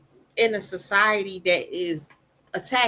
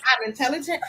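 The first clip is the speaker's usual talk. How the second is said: put-on child's voice; 5 semitones higher than usual. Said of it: "He started adding stuff".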